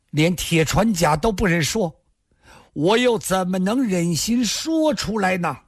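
high-pitched, halting plea; anguished protest. A narrator's reading. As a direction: defend yourself in distress, voice climbing. Accused man pleads his torn loyalty.

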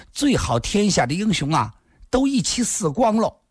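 high-pitched, indignant outburst; loud outburst. Acted. Lingling berates the men for their killing, in a high outburst. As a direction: protest at a high pitch, stamping mad. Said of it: "大声地说道".

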